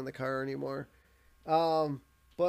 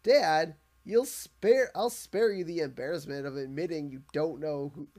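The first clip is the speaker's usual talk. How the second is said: smug radio host. Retold or imitated. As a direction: ham up the self-satisfied host. Radio host voiced in recap.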